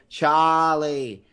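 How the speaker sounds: hammed-up bad Boston accent; badly faked Boston accent, drawn out; imitated Boston accent. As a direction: drawl it out in a mock Boston accent. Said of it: "I love imitating him say".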